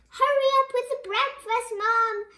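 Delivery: high, loud whiny call; loud bratty demand; demanding boys calling. Acted. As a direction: yell it like spoiled kids.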